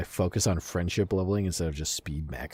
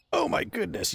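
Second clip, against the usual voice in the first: surprised squeal. Real, not acted. Reacting to the horse in game.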